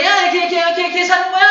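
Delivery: high and loud lively teacher; high-pitched teacher. Shown as a demonstration. Lively teacher keeping students awake, high and loud. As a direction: pitch it up and energize the class. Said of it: "막 이렇게 높은 음으로".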